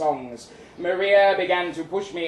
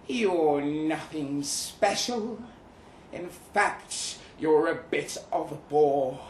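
sneering; slower than usual. Acted. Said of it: "that sneers".

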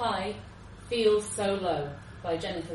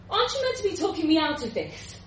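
indignant disbelief; 9 semitones higher, 4 dB louder, faster than usual. Acted. Jumper baffled by policeman.

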